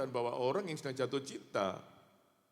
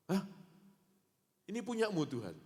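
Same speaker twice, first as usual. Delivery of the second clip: high, startled "Hah? Ini punyamu"; man shocked to learn the footprints are God's; astonished; 9 semitones higher than usual. Acted. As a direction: gasp in disbelief.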